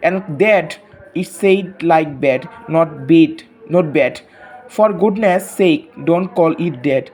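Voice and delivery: slow, deliberate poem reading for pupils. Acted. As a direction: read the verse slowly so the class can follow. Reads poem aloud to class. (ধীরে ধীরে কবিতা পড়া)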